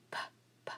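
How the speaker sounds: whispered puffs of "p"; bare unvoiced "p", spaced apart; isolated letter sound. Shown as a demonstration. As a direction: pop "p" twice without a vowel. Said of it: "my first syllable is puzz".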